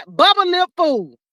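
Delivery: mock insult. Real, not acted. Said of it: "I said".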